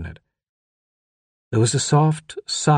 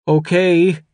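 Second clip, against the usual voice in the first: high, louder one-word reply; shaken boy; 8 semitones higher, 6 dB louder than usual. A narrator's reading. Boy alone at the monitor answers father, shaken.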